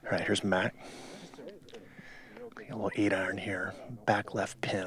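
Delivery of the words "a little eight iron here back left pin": golf commentator. Acted.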